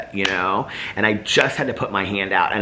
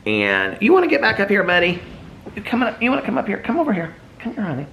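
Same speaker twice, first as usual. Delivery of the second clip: high, cooing sing-song pet voice; 11 semitones higher, faster than usual. Real, not acted. Owner calling her dog over to the mic, high cooing pet talk. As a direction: coax the little dog over sweetly.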